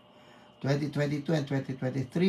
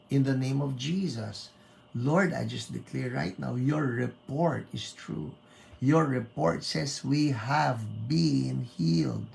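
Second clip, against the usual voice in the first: prayer. Acted. Prayer declaration.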